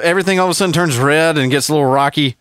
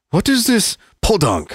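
high-pitched mimicry of a baffled outsider; puzzled foreign listener; 6 semitones higher than usual. Imagined listeners in Canada or Saudi Arabia, imitated as puzzled. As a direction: put on a higher, puzzled questioning voice. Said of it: "if they're like".

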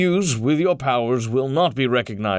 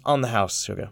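a lightly voiced diner waitress calling him sugar; just a hint of a flirty waitress; 3 semitones lower, 4 dB quieter than usual. The waitress Constance offering coffee on the house, lightly flirty. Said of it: "As she says".

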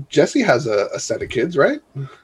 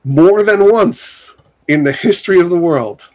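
mock-grand announcer with long pauses; lightly hammed-up announcement, spaced out for suspense. Host announcing friend's wedding as world news, mock announcer voice. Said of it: "say it in my announcer voice".

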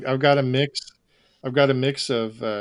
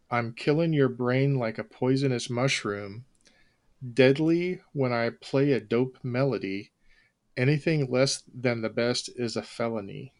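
monotone voice. Shown as a demonstration. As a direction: recite rap lyrics with zero melody. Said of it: "in an especially monotone voice".

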